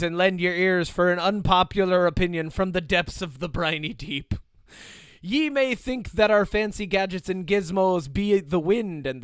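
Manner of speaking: hammy pirate reading with laughs. Acted. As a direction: read it like an old sea dog. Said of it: "Do it in the pirate voice".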